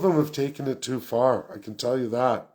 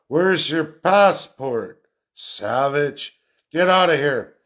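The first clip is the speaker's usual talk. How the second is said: mock border guard; 2 semitones higher, 4 dB louder, slower than usual. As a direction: play a contemptuous border guard shouting a man off. Mocking border guard quote.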